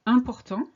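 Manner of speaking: important said in French, opening on a high nasal "un". Shown as a demonstration. Teacher demonstrating the rule, nasal "un" opening. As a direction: lean on the nasal first syllable of important. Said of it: "starts with the sound un".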